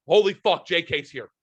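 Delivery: excited high-pitched blurt, retold; loud outburst. Kid spotting the announcer at the wake, loud excited outburst. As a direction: imitate an excited fan's too-loud exclamation. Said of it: "said it loud enough".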